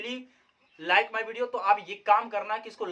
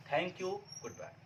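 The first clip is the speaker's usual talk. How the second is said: slow goodbye; 12 dB quieter, much slower than usual. Real, not acted. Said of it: "I hope".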